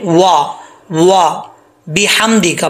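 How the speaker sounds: वा with rounded lips, बिहम्दिका with बी and a light हा; correct reading. Shown as a demonstration. Teacher shows students the correct reading. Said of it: "तो इसको कैसे पढ़ेंगे?".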